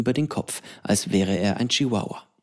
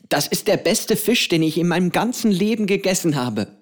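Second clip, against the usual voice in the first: solemn; 7 semitones higher than usual. A narrator's reading. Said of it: "sagte Pedro feierlich".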